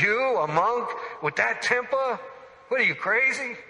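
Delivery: mock him like the family at the dinner table; mocking disbelief. Family laughing at his plan.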